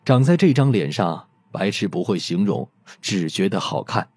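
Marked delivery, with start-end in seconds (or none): none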